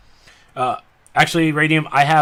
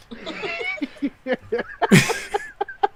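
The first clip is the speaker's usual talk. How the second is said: high laugh; 6 dB quieter than usual. Real, not acted. Laughing at a joke.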